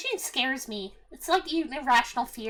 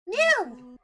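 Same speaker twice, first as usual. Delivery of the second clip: quick cow moo. Pretend. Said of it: "the chat would like a moo".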